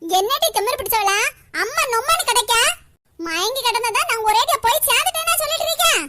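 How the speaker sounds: grandma lashes out at her daughter-in-law; furious scolding. Acted. Grandmother beats her daughter-in-law while scolding her, furious and shouting.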